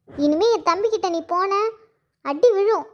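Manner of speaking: cross mother laying down the law; scolding threat. Acted. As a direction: warn the child off angrily. Mother threatens the child with beating.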